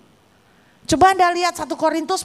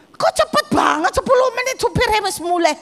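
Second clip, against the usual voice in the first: inner surprise; 4 semitones higher than usual. Retold or imitated. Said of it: "Saya dalam hati gini".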